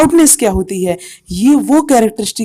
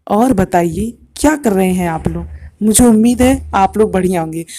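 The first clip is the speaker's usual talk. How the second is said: slower, lower demo take; 3 semitones lower than usual. Shown as a demonstration. Teacher demoing slow speech to students, slower. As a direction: ease it out slowly to show low pitch. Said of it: "दूसरे में ... धीमे धीमे बोल रहा था".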